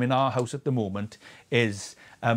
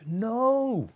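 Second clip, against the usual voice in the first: sharp, higher exclamation cutting off the doubt; emphatic no; 10 semitones higher than usual. Real, not acted. Preacher rejecting imposter syndrome, emphatic and higher. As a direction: shut the fear down in one word.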